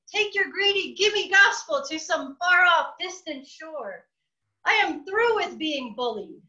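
high, fierce threatening rant; angry shouting. Acted. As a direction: drive the bird out, furious. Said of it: "with threats and shouting".

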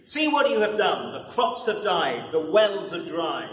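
hammed-up royal blame; angry king. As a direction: blame him furiously as the king. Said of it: "roared the king".

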